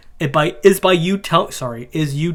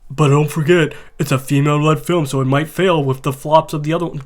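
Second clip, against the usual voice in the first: mocking; 5 dB louder than usual. Mocking the YouTuber loudly.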